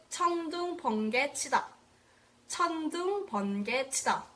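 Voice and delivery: 천둥 lifted, then 번개, 치다 falling; Korean phrase drill. Shown as a demonstration. Teacher models the tongue-twister phrase for students, rising on 천둥. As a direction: model 천둥, 번개, 치다 with a lift on 천둥. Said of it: "Type it".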